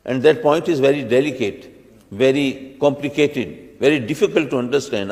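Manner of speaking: very slow, each English word drawn out; slow, weighty warning. Shown as a demonstration. Preacher warning listeners a point is hard, very slow. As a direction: stretch every word to make the point sound heavy. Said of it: "میں آپ سے کہوں کہ جی میں ایک نقطہ بیان کرنے لگا ہوں".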